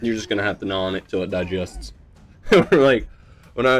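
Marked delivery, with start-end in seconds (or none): 0.0-1.9 understated dry sarcastic reply; deadpan sarcasm. Retold or imitated. Dad answering what's for dinner, sarcastic. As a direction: imitate a parent's snarky answer, barely acted. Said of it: "like, very sarcastic".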